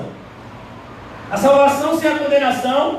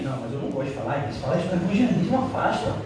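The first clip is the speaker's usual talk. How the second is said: timid objection; 6 semitones lower, 6 dB quieter, faster than usual. Retold or imitated. Mocking a timid evangelist.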